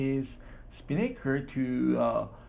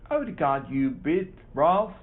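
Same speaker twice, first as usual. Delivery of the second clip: shouted; 2 semitones higher, 3 dB louder than usual. Acted. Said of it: "Jasper Green shouted".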